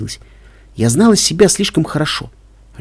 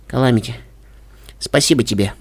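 weak smile; 3 semitones lower, 4 dB quieter than usual. A narrator's reading. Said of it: "улыбаясь, как только могла".

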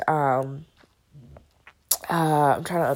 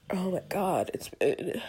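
whisper; 5 dB quieter than usual. Real, not acted. Whispered aside.

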